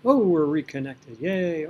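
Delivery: loud, bright mock cheer at the reconnect; relieved cheer. Real, not acted. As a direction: celebrate the mouse coming back.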